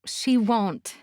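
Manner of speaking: confident. Acted. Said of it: "I stated confidently".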